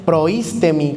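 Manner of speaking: proístemi with the accent on the first í; stress on the I. Shown as a demonstration. Preacher naming the word for presiding, stress on the í in proístemi. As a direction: hit the í right after pro in proístemi. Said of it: "con acento en la I".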